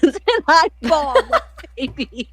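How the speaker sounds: giggling at her own crying; laughing. Real, not acted.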